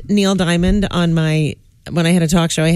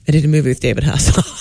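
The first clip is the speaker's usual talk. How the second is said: lame name dropper; 5 semitones lower, faster than usual. Retold or imitated. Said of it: "Lame dropping is when you're like".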